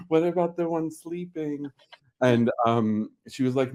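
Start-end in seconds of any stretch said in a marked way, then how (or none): 0.1-1.7 retold hopeful question. Retold plea about the kitten.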